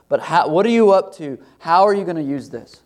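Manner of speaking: anguished prayer. Acted. Voicing a struggling prayer to God.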